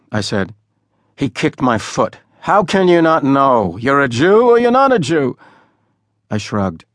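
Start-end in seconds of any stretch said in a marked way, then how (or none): 2.4-5.4 higher, louder impatient interrogation; bully him into answering; a loud exasperated bully; angry demand. A narrator's reading. Boy kicks him, demands answer.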